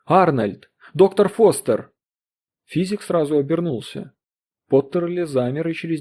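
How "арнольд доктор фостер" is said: loud, higher urgent calling out; shrill insistent call. Acted. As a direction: call down to stop them. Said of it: "пронзительный и настойчивый". (пронзительно и настойчиво, громко)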